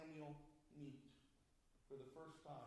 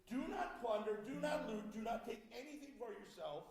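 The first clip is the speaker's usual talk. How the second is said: stern command; 3 semitones higher, 6 dB louder than usual. Retold or imitated. God's command to destroy Amalekites.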